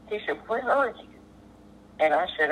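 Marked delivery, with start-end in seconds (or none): 0.5-1.1 pitched higher, an anxious question; retold fear. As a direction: imitate the control-center man's sudden fear, voice going up. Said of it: "fear in that guy's voice".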